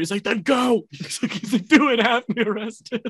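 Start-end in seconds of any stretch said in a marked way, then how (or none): 0.2-0.8 high, hammed-up command; defiant mock dare. Master daring butler to fetch police, defiant mock shout. 1.7-3.0 high-pitched goading; hammed-up, excited challenge; defiant mock dare. Master daring butler to have him arrested, high mock defiance.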